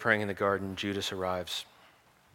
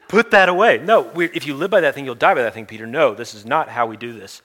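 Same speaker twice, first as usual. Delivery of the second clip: loud, sharp rebuke, pitched up; stern shout; 4 semitones higher, 11 dB louder than usual. Acted. Jesus shouting at Peter to put the sword away, stern. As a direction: stop him hard, like grabbing his arm.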